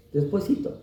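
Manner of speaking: coaxing "Despuésito" with a lifted, rising end; a playful plea to wait; pleading mock delay. Mocking reluctant believers.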